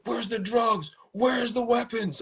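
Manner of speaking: high, thin mocking imitation of the cops; mock cop demand. Retelling the swat raid to a friend, mocking the cops in a high voice. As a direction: squeak it out to ridicule the officers. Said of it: "You know, they were like".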